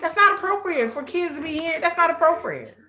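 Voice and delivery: high-pitched, appalled protest; disgusted. Real, not acted. Parent condemning nasty talk around kids, disgusted. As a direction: object firmly, thoroughly grossed out. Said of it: "that's just so gross and disgusting".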